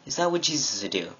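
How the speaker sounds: quick rhetorical question; brisk follow-up question to a friend; repeated challenge. Retold or imitated. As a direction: ask it fast, at an everyday pitch. Repeats the challenge lower, faster.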